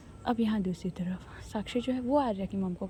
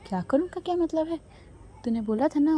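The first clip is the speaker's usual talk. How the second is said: sharp, louder, higher comeback; irritated retort; 6 semitones higher, 5 dB louder than usual. Acted. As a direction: snap back at her friend, raised voice. Saanjh snaps back at friend. (चिढ़कर ऊँची, तेज़ आवाज़ में जवाब)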